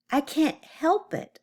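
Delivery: high, slow whine; whining. A narrator's reading. Oscar protesting to his mom, whining. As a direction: whine it like a put-upon child. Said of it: "whined Oscar".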